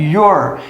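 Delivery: your said as a closed o sound with R; your said like Portuguese ôr. Shown as a demonstration. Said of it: "com acento circunflexo e R".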